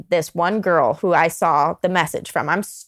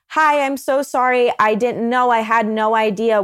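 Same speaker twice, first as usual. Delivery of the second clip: higher, louder, hammed-up panicked apology; mock flustered girl; 3 semitones higher, 4 dB louder than usual. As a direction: play the girl backpedaling in alarm. Acted girl's panicked reply.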